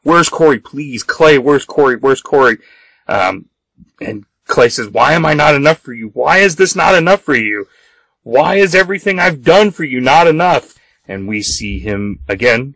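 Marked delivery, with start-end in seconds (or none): 0.0-2.6 insistent mild mock yell; retold scream. Kat begging Clay to say where Corey is, retold scream. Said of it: "Kat just keeps screaming at him". 4.9-10.7 mounting higher-pitched mock protest; acted anguished outburst. Clay confronting Kat over not being enough, acted outburst.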